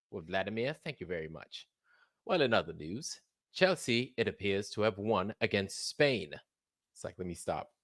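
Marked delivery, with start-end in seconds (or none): 0.1-6.3 soft, lower British news anchor; mock British accent. Studio anchor thanks the live reporter, mock British accent. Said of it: "my bullshit British accent trying to act like a British reporter".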